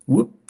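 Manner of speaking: a little whoop for the poke; playful whoop. Shown as a demonstration. Imitates the poke during replay commentary.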